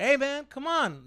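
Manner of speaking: loud, high, drawn-out confrontational call. Retold or imitated. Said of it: "Now I'm at this tone".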